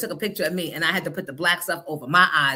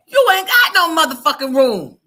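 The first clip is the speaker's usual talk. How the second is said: New York attitude; 8 semitones higher, 11 dB louder than usual. Retold or imitated. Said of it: "The New York in me said".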